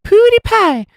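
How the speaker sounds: high, loud mock YouTuber shriek; over-the-top squeal. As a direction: squeal it out, exaggerated. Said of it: "mellow and not over the top".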